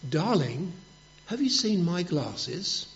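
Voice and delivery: soft, hushed question to his wife; husband testing if his wife is deaf, hushed whisper from the door. Retold or imitated. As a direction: ask it softly from the doorway, barely above a whisper. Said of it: "and he whispers".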